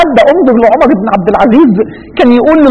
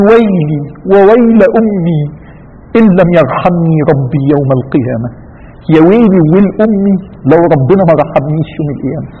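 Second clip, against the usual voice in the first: fearful lament; 7 semitones lower than usual. Retold or imitated. Omar laments fearing judgment.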